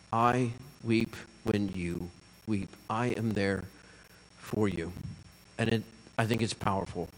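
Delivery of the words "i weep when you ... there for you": soft, low, slow and tender; gentle comfort. Acted. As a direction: console someone grieving, slowly and quietly. Voices Jesus comforting the grieving.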